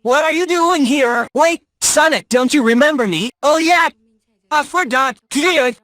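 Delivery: high, excited hedgehog voice; fast cocky cartoon hero; Sonic voice. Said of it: "why do you sound like Sonic".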